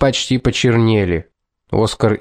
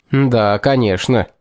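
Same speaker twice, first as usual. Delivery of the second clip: sarcastic. Acted. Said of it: "саркастически ухмыльнулся".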